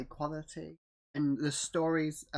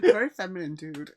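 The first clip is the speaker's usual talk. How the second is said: mock feminine voice; 3 semitones higher, 8 dB louder than usual. Mocking joke in falsetto.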